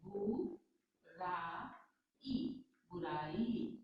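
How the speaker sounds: बुराई stretched very slowly with a rise; slow dictation. Shown as a demonstration. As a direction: spell बुराई out slowly, lifting at the end. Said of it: "छोटी की मात्रा लगती है".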